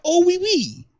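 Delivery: high, hammed-up French accent; French people as fans, in mock French accent. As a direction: put on a silly French voice. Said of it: "They'd be like".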